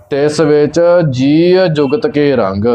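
slight break after ਵਿੱਚ; small breath between ਵਿੱਚ and ਜੀ; short pause demo. Shown as a demonstration. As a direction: draw out ਵਿੱਚ briefly before ਜੀ. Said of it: "ਭਾਵ ਛੋਟਾ ਵਿਸ਼ਰਾਮ ਲੱਗੇਗਾ".

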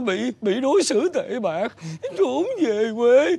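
slow, sobbing stammer; tearful complaint. Acted. Father tells neighbour of mistreatment, tearful. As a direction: draw each word out tearfully.

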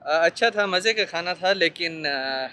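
muffled behind surgical mask; speaking with covered mouth; through a face mask. Real, not acted. Seen 1: Surgical mask covers mouth and nose throughout labelled speech.

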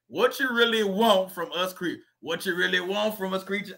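lightly done rapper growl, mostly own voice; a rapper's voice. Retold or imitated. Host doing his best line about roaches in a rapper's voice, lightly voiced. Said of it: "in a D M X voice".

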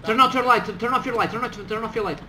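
urgent shout. Acted. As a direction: yell the order, then ease off. Urgent order in combat.

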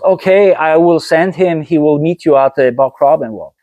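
a hint of twang, easing down toward the end; Side's ringing twang. Friend arranging a meeting at the wall, light twangy imitation. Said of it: "a ring to his voice".

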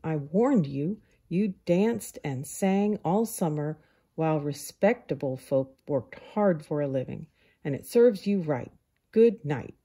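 stern, self-righteous telling-off; scolding. Acted. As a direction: scold him and shut him out. Ant scolds Grasshopper at door.

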